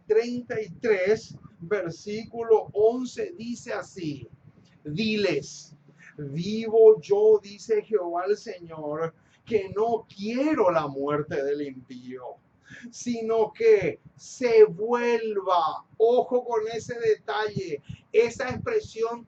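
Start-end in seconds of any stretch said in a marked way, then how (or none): 4.8-15.8 lower-pitched, solemn verse reading; scripture reading. Acted. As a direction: read the verse out with weight. Reads Bible verse aloud. (lectura bíblica solemne)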